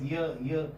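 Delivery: "ear" said low with spread lips. Shown as a demonstration. Teacher contrasting it with wo, spread lips. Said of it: "spread lips".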